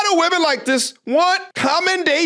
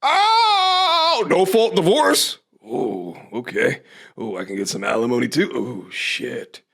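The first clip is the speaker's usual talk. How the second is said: mock dim realisation. Commentator mocking the divorcee as she discovers alimony, low dopey voice.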